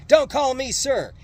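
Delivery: high, loud, slow drill-sergeant yell; sergeant screaming. A narrator's reading. Drill sergeant screaming at new recruits, loud yell. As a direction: bark the order at the recruits. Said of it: "This one sergeant screamed".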